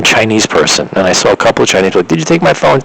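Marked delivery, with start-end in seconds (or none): 2.1-2.8 higher, frantic demand; half-performed panicked accusing; mock frantic yell. To strangers on the street, a retold frantic yell. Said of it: "screaming at them".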